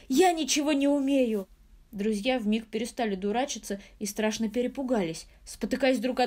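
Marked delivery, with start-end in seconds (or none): 0.1-1.5 sobbing. A narrator's reading. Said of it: "зарыдал вдруг маленький мастер".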